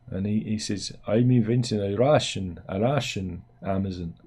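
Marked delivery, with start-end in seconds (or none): 1.1-4.1 lightly hammed Russian accent; put-on Russian accent. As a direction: quote him in a loose mock Russian accent. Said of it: "I should really drop the, the accent".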